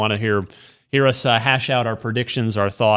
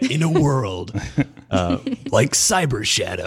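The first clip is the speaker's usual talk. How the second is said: movie trailer announcer; 3 semitones lower than usual. Pretend. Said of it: "say the rest of the names in announcer voice".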